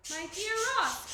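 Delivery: high, loud cry of greeting; glad cry. A narrator's reading. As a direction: call out to an old friend. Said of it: "cried Macduff".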